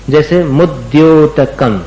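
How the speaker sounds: slow, careful मुद्योतकम; slow pronunciation demo. Shown as a demonstration. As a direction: say मुद्योतकम slowly with a clear final म. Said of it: "इसका उच्चारण आपको संभाल के करना है".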